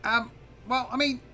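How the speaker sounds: high, soft, drawn-out hedging; unsure little dragon; Zarf, hesitant. Acted. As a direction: stall reluctantly in a high voice. Game master plays a hesitant Zarf.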